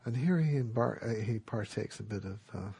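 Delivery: ordinary talk, nothing marked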